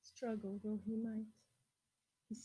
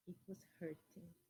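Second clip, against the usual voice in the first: soft sympathy; 6 semitones lower, 11 dB quieter than usual. A narrator's reading. Sid's sore throat.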